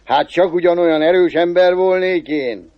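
a hint of a self-impressed cobbler; lightly voiced cobbler, drawing out the thought; cobbler musing to himself. Cobbler marvelling at his own strength after killing flies, lightly musing. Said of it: "gondolta a szőcs".

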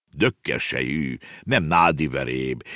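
slow, low, measured correction; correcting chief. Acted. Chief correcting the uncle on his name, slow and low. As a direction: correct him slowly and with dignity. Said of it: "igazította helyre a törzsfőnök".

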